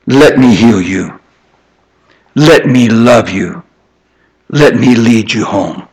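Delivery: tender God's voice. Retold or imitated. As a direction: offer comfort like a loving father. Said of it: "God will say".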